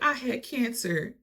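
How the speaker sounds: high, slow, imitated fake crying; mock tearful. D pleading with the family, mock tearful. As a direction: mimic a tearless sob story. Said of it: "she starts, like, crying".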